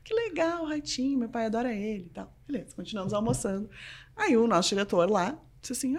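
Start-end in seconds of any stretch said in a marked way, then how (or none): 0.0-2.3 softly thrilled, keeping it discreet. Retold or imitated. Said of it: "Deu assim, bem discreta".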